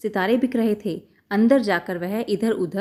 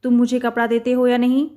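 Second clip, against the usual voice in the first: mild mouse yell; 3 semitones higher, 4 dB louder than usual. Acted. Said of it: "चूहा चिल्लाया".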